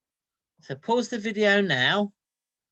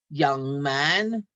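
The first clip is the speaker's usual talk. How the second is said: mild stern anger; 2 semitones lower, 4 dB louder than usual. Acted. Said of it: "She only calls me young man if she's very mad".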